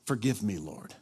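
soft, low penitent murmur; humbled apology. Retold or imitated. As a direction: shrink into a quiet, chastened prayer. Acts out own chastened apology.

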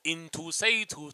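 slow, garbled American accent attempt. Shown as a demonstration. Struggling actor shows hosts his accent, slow bad American accent. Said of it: "An American English accent".

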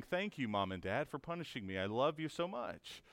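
soft, sweetly sarcastic thanks; a hushed mock-sweet thank-you; mock grateful child. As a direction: play the sulky kid faking gratitude.

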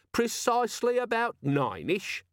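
slow, high mimicry of a squeaky gadget; exasperated echo. Vimes repeating the demon's answer, exasperated mimicry. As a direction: parrot it back, drawn out.

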